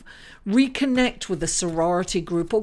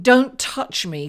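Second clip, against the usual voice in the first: "Don't touch me" said louder, slow and pushed away; don't touch me attitude; 3 semitones higher, 6 dB louder than usual. Pretend. Astrologer voicing the reader's mood to viewers, loud mock brush-off. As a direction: fend them off, drawn out and firm. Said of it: "it's like".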